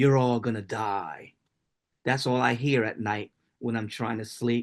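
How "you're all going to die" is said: put-on matter-of-fact, untroubled, calm, composed. Reading a written piece aloud, the gunman speaking: calm. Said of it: "saying calmly".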